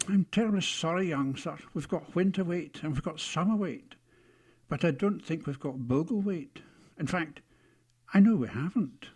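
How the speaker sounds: a hint of a courteous, regretful shop man; apologetic shopkeeper. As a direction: apologise as a formal outfitter, gently hammed.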